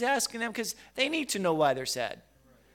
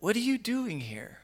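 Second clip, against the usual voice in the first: "What are you DOING here" asked with feeling, swooping up then falling; feeling, with emphasis; 3 semitones higher than usual. Acted. Preacher voicing God's question to Elijah, with feeling and emphasis. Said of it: "that's how I'm feeling. I'm feeling with that emphasis".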